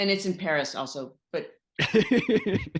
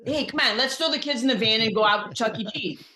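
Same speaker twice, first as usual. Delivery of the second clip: ordinary Midwestern voice. Retold or imitated. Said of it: "That's what Italians talk like".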